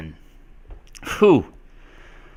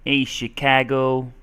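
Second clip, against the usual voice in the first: slightly higher Chicago accent, short A in "Chicago"; attempted Chicago accent; 4 semitones higher than usual. Shown as a demonstration. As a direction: have a light go at a Chicago accent. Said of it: "Chicago has an interesting accent".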